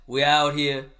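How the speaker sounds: loud raspy hype intro. Acted. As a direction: rasp out a hype greeting. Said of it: "Raspy voice, one time again".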